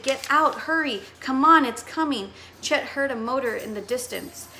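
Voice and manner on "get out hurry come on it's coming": raised, louder panicked yell; screaming at Sid. Acted. Friends screaming at Sid to get out, panicked yell. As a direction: scream at him to move. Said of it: "They all screamed at Sid".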